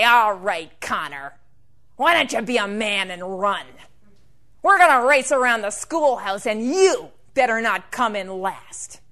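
lightly voiced bully, loud at the start; a touch of taunting menace. Bully Dirk challenging the lame boy to race, taunting. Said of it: "led by a bully named Dirk".

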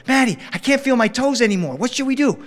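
put-on a cold child begging his cousin; whiny kid voice. Young self pleading again.

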